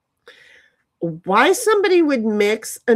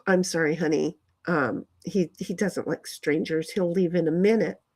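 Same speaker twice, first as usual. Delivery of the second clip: softer, lower, soothing aside; acting out a mild, reassuring apology; gentle apology; 5 semitones lower, 5 dB quieter than usual. Apologizing to a guest for her shy cat, gently.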